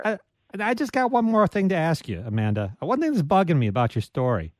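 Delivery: lightly voiced TV detective impersonation; halting start, then a mild put-on detective voice; Columbo. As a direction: try a half-convincing impression of the detective's parting question. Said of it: "that was my Columbo impersonation".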